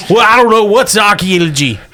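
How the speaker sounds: redneck voice. Acted. GM voicing Mossy Pete.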